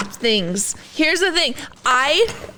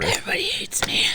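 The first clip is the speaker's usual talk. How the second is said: whisper; 6 dB quieter, faster than usual. Real, not acted. Sulking after eating hot pepper.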